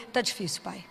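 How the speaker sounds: quiet tired prayer to God; hushed plea. Pretend. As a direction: breathe it out on your knees. Kneeling prayer to father.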